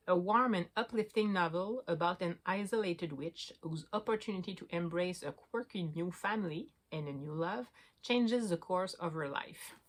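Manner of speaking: slow read-aloud in French-accented English. Real, not acted. Vlogger reads a book summary to viewers, French-accented English. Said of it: "excusez mon accent".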